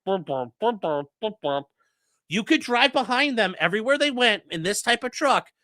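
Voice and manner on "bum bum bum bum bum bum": low mock tuba bums; imitating a tuba from the meme, low and plodding; tuba imitation. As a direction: hum it like a tuba following someone. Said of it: "the dude with the tuba going like".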